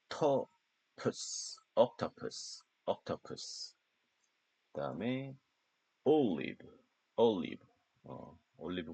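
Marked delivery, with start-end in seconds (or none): 0.1-3.8 octopus breathed out with no voice; voiceless drill. Shown as a demonstration. Teacher modelling the word for students to copy, voiceless. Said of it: "옥".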